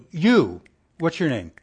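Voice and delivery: a hint of a casual, forgetful God fumbling a name; lightly voiced, offhand, guessing at a name; mock Lord who forgot the name. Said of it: "could you imagine the Lord saying".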